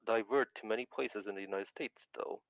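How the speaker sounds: carbon mic. Real, not acted. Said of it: "you do sound like a phone".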